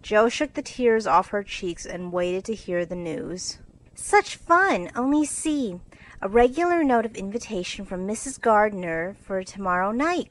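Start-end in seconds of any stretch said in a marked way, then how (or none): 3.9-10.3 put-on bright, eager girlish delight; gushing over the invitation; excited cry. Sister showing the note, excitedly. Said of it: "cried Meg".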